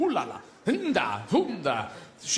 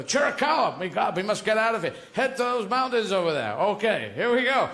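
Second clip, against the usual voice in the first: western hero; 3 semitones higher than usual. Acted. Acting a Western scene.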